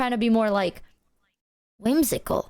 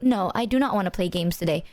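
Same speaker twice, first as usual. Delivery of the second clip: lower, matter-of-fact no; blunt refusal; 4 semitones lower than usual. Retold or imitated. Declining a friend's invitation to play games, blunt. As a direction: turn it down without softening. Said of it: "like, how I said it".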